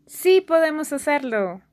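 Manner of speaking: Sí punched high and loud, falling; stress on sí. Shown as a demonstration. Teacher stressing Sí for students. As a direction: hit Sí hard, then let it drop. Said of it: "Pay close attention to this pronunciation".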